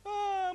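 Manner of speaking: high-pitched mock cry; drawn wail, imitating a child; imitated child's wail. Father mimics his son starting to cry, high mock wail. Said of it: "mulai nangis dia".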